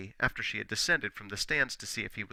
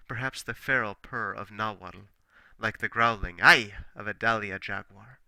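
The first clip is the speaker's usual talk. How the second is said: much louder, with a feral growl in it; growling jaguar; 10 dB louder than usual. Acted. Poet roaring his song at Nobia like a jaguar, growling. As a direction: let the jaguar growl through the words.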